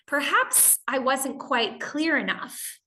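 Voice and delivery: slow, overly patient polite phrasing; gently imply they misread, sweetly; a mild hint of passive aggression under politeness; fake polite. Shown as a demonstration. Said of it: "Another more indirect way would go".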